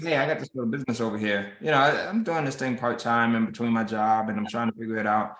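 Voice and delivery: quick, low-key mumble, selling yourself short; unexcited downplaying. To a listener, brushing off your own business, flat and unexcited. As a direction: shrug it off like it's nothing much. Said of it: "There's not much excitement that you're projecting".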